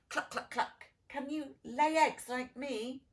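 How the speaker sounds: lightly voiced boastful hen; clucking hen. Hen boasting to the duckling, mild clucking voice. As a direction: cluck it out, a touch proud. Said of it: "clucked the hen".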